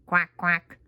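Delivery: low, short duck quacks. Pretend. Voicing the toy duck.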